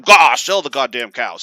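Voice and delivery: loud, explosive dad curse; mock super-mad dad. Dad challenged by his son, mock fury. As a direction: burst out as an instantly furious father, imitated. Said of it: "He's just super mad instantly".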